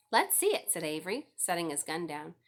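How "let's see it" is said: high, loud, eager demand; eager boy. A narrator's reading. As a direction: push in eagerly, much higher and louder. Eager brother demands to see.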